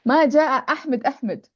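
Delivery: أحمد repeated to underline the name; emphasis on أحمد. Shown as a demonstration. Teacher shows how to emphasize the doer, stressing doubled أحمد. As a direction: double أحمد, the second one settling down. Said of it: "Ahmed itself".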